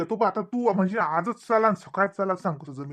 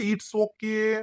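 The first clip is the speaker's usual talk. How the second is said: mocking Manda; much slower than usual. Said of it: "काय म्हणे बापा".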